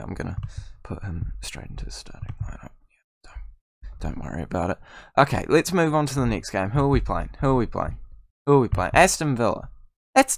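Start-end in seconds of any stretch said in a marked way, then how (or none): 0.0-4.8 very soft, low, half-whispered mumble; hushed aside. Real, not acted. Gamer slipping player into the lineup, hushed aside. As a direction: drop to a whisper under the breath.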